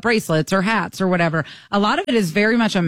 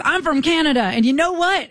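raised, high mimicked declaration; mock overbearing announcement; imitated obnoxious loudness; 6 semitones higher than usual. Imitating the Canadian man launching into politics, mock obnoxious loudness. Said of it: "this was obnoxious loud".

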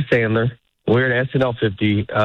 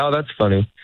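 quick brush-off; 2 semitones lower than usual. Shown as a demonstration. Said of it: "You say it a little bit quicker".

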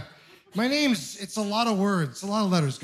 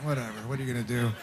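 quiet resigned thought; 7 semitones lower, 7 dB quieter, much faster than usual. Retold or imitated. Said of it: "I thought".

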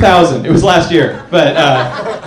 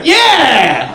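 high-pitched frantic yelling; over-the-top alarm, voice jumping up high; manager flipping out; 11 semitones higher, 3 dB louder, much slower than usual. Acted. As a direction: freak out like a thrilled manager catching someone. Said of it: "he's, like, flipping out".

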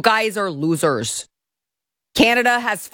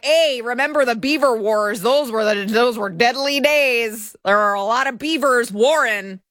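higher-pitched mock Canadian reminiscing; 4 semitones higher than usual. Host imagines Canadians recalling the Beaver Wars, mock Canadian. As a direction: put on a mock Canadian voice, drawing out the end. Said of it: "in Canada they'd be like".

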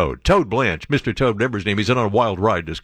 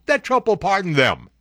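ordinary talk

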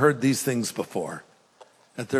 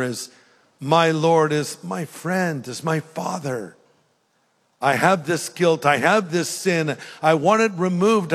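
sincere prayer. Shown as a demonstration. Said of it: "maybe you would say".

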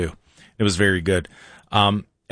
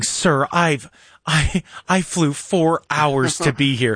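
mock reporter complaint; slower than usual. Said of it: "the reporter's going".

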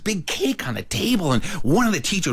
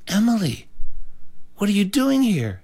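higher-pitched disbelieving question; shocked teacher; 9 semitones higher than usual. Retold or imitated. Teacher finds good girl at lounge, shocked. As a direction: imitate a teacher taken aback.

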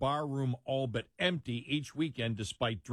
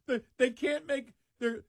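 higher, incredulous pileup of facts; 10 semitones higher than usual. Real, not acted. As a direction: sound amazed at each point. Incredulous at the bar's plight.

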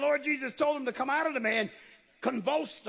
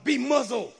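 louder, firm holler; hollered command; 5 dB louder than usual. Retold or imitated. Jesus orders the demon silent, hollered command. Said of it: "He hollers out".

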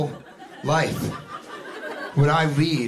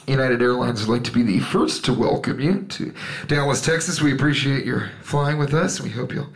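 pilot announcement; 4 semitones lower than usual. Retold or imitated. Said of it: "the pilot always gets on and goes".

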